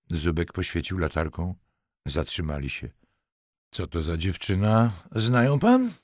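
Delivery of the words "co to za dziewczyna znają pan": sharp question. A narrator's reading. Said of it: "zapytał ostro".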